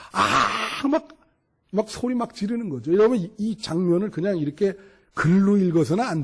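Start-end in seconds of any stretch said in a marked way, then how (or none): 0.1-0.9 half-hearted imitation of yelling; imitated drawn-out yell. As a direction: draw out a pretend cry. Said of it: "막 소리를 지르면서".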